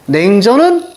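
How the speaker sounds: slow, deliberate model reading; teacher's measured read-aloud; demonstrated reading. Shown as a demonstration. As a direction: read it out slowly for students to follow. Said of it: "이렇게 읽는 거야".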